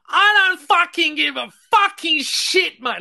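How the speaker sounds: loud, high angry rant; imitating an angry caller shouting down the line; mock screaming caller. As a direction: yell it like a furious caller on the phone. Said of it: "People screaming at me from Australia".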